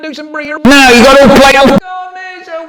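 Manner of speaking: high, loud pupils begging; high pleading pupils. Retold or imitated. Pupils urging the teacher on, high and loud. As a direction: beg the teacher loudly, like kids.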